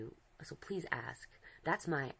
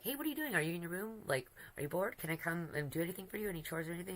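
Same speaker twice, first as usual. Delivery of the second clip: put-on eager boyfriend voice; 4 semitones higher, faster than usual. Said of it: "stuff is all like".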